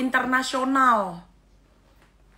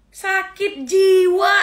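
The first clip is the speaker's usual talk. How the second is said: exasperated; 8 semitones higher, 7 dB louder, much slower than usual. Real, not acted. Ranting about crazy woman.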